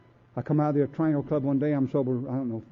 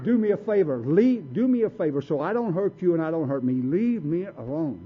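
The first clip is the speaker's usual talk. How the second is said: retold warning; 4 semitones higher than usual. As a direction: warn them off before you hurt someone. Retold warning to be left alone.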